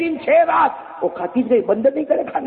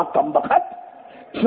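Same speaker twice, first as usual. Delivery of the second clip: exasperated curse; 2 semitones higher, much slower than usual. Acted. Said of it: "कहा".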